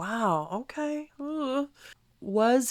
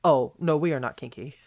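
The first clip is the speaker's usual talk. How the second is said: Sumit; 7 semitones lower than usual. Retold or imitated. Sumit denying it to the camera, low mock deadpan. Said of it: "he just looks at the camera and says".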